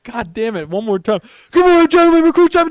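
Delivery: high, loud recruit bark; barked sir yes sir. Retold or imitated. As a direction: scream it out at attention. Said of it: "You're like".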